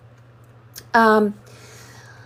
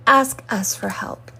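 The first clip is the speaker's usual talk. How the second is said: slow whispered message; a slow voiceless whisper from unseen helpers; 3 dB quieter than usual. Acted. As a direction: breathe it like a secret invitation.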